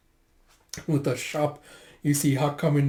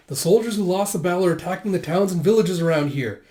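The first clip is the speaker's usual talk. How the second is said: raised, pressing warning; urgent report; 5 semitones higher, 4 dB louder than usual. Retold or imitated. Warning that soldiers are attacking villages, urgent.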